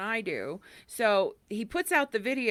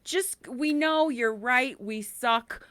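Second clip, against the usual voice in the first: mock soothing; 2 semitones higher, slower than usual. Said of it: "told Al Qaeda after nine eleven".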